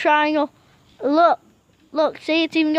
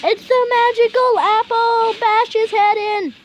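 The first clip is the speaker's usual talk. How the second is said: excited urging; 5 semitones higher than usual. Real, not acted. Urging his partner to attack, excited shout. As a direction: push him on, thrilled.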